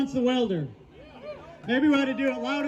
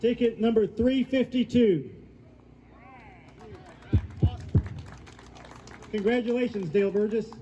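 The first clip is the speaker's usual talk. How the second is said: raffle caller; 13 semitones higher, 6 dB louder than usual. Real, not acted. Announcing the raffle winner.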